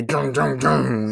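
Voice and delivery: vroom-like rumble of bikes; imitated motorcycle revving. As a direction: mimic choppers revving out. Imitating the choppers' engine noise.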